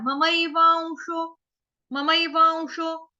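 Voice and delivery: ममैवांशो chanted with a half व before शो; slow model recitation. Shown as a demonstration. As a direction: stretch ममैवांशो so वां sounds nasal. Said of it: "आधा व ऊपर चंद्र बिंदु जैसा". (ममैवांशो धीरे, आधा व)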